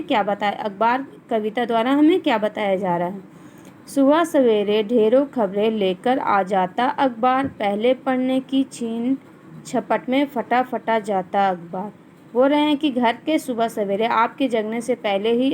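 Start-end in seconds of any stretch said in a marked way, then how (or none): 3.9-11.9 measured classroom poem reading; children's poem recited by a teacher; poem recitation. Acted. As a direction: read the verse out line by line, falling at each close. Reads the poem aloud.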